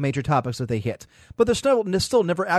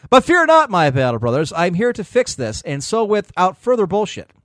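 mock war sermon; 3 semitones higher, 6 dB louder than usual. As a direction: preach it like a battle chaplain. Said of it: "he gives us a prayer".

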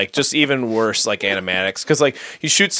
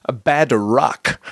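exaggerated East Asian accent, slow; mimicking a bad East Asian accent. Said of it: "this woman trying to do an Asian accent".

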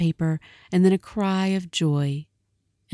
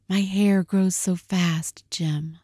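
slow tender reassurance; slower than usual. Acted. Della reassuring Jim tenderly, slowly. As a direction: comfort him through tears.

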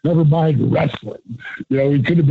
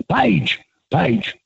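higher imitated voice of a grumbling friend; Michael Hayes voice; 3 semitones higher than usual. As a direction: imitate his higher voice, half joking. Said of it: "could do a dead-on Michael Hayes".

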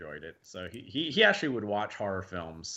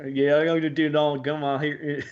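louder, higher goofy improv voice; weird improvised character; 4 semitones higher, 5 dB louder than usual. Acted. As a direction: throw out a silly made-up character voice. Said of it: "just me just being weird".

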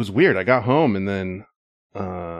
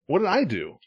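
high, soft protest of innocence; baffled plea, lightly acted; retold bewilderment; 6 semitones higher, 5 dB quieter than usual. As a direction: imitate a puzzled victim. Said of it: "held his arms up like".

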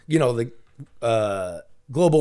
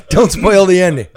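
laughing; 3 semitones higher, 4 dB louder than usual. Pretend. Repeats joke while laughing.

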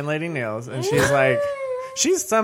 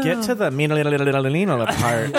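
slow quote; much slower than usual. Retold or imitated. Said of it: "They're like".

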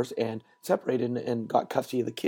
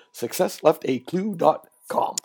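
announcer voice; 2 semitones higher than usual. Acted. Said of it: "I'll do that in my best announcer voice".

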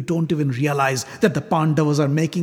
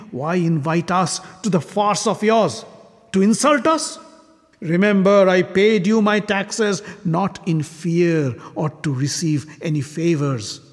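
angry accusation; 3 semitones higher than usual. Acted. Shishupala's angry tirade in the assembly.

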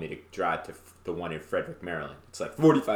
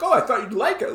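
mom voice; 13 semitones higher, 5 dB louder than usual. Retold or imitated. Mom quoted in childhood story.

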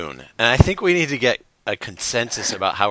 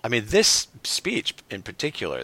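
normal talking voice

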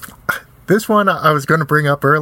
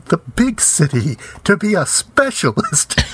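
mock dramatic echo; 3 semitones higher than usual. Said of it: "echoing the film line".

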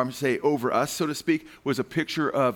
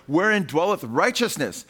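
Shakespearean English; 2 semitones higher than usual. Shown as a demonstration. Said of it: "talking in Shakespearean English".

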